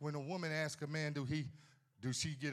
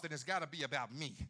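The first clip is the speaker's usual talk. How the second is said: ordinary talk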